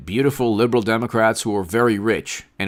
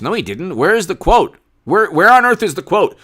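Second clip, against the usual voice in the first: higher, insistent demand; incredulous raised-voice questioning; exasperated challenge; 5 semitones higher, 3 dB louder than usual. Real, not acted. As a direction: demand proof, pitch jumping up. Challenges reporters for evidence.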